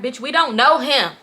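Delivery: annoyed telling-off of a friend. Retold or imitated. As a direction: retell it fed up, pushing the words. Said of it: "I'm annoyed".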